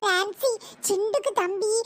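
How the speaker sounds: low, tender cooing; soothing a baby. Acted. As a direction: hush a crying little one.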